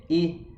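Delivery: E said as a closed "ê"; French acute E, mouth fairly closed. Shown as a demonstration. Teacher showing the French acute accent, closed E. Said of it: "esse som que pra gente é fechado".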